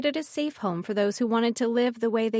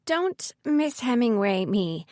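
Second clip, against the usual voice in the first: mock-indignant; 2 semitones higher, slower than usual. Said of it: "pointed a glare at him".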